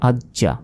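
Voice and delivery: আজ জা as aj-ja, j closed then released; doubled consonant. Shown as a demonstration. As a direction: sound the j twice in আজ জা. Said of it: "তাজদিদের উচ্চারণ দুইবার হয়". (আজ জা, জ দুইবার)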